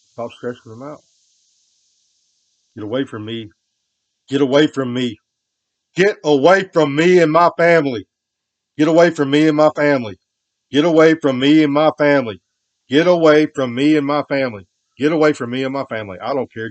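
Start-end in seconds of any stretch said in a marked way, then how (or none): 2.8-3.5 raised voice. Real, not acted. Yelling at someone to leave. 4.3-16.7 full-throated furious screaming, building high then easing; furious shout. Real, not acted. Yelling at someone to leave.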